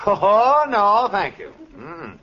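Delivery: high loud horrified no; emphatic refusal. Acted. Husband refusing a driving lesson, horrified. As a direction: back away fast.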